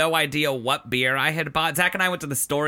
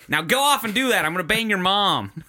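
Little League coach; 4 semitones higher than usual. Acted. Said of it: "like a Little League coach".

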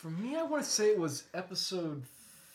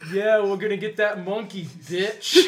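Jesse Pinkman voice; 6 dB louder than usual. Acted. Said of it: "Jesse Pinkman impressions is to, just to add bitch".

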